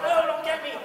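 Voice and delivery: retelling the perfume attack in mock fright; mock panic. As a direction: dodge the spray. Perfume girl spraying him.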